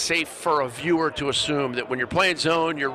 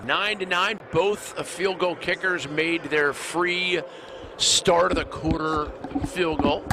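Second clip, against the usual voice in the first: higher-pitched, drawn-out sponsor read; announcer read; 3 semitones higher, slower than usual. Acted. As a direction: announce the bowl game to viewers, stretching the key words. Announcer's sponsor read and score update.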